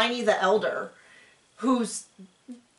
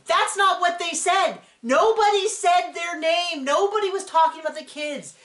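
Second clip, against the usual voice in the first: higher, slowed, protesting mock yell; mock yell at the screen; 8 semitones higher than usual. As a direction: replay her outburst at the TV, pitched up. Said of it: "I remember screaming at the screen".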